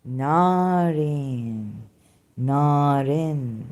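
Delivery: "Narin" with a long, held "naa"; drawn-out Arabic word. Shown as a demonstration. Teacher repeats the Arabic word after hearing it, drawn-out pronunciation. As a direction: stretch both syllables of "Narin" slowly.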